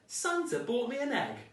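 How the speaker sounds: put-on a greedy boy let down; indignant boy. A narrator's reading. Danny complains about his Christmas egg, high and outraged. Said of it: "Danny said".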